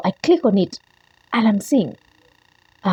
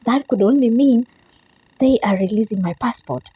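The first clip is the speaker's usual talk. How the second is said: shaky excited; 5 semitones higher, 3 dB louder than usual. Retold or imitated. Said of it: "I'm shaking at this time".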